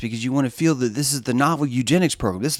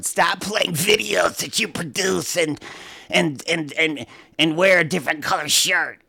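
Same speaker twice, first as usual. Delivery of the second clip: mock nagging quote; 3 semitones higher than usual. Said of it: "It was like Adrian going".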